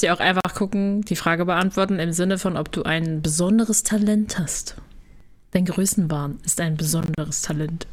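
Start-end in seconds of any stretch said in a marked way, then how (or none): 2.6-7.9 whispering. Real, not acted. Aside to the others, teasing.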